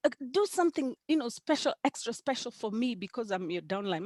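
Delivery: high, playful begging for a favour; lightly acted plea to the upline; mock pleading. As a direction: coax her for special treatment, pitched high. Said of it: "Sometimes I look at her like".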